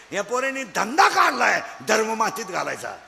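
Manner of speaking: shouted denunciation. Real, not acted. Preacher denouncing to crowd.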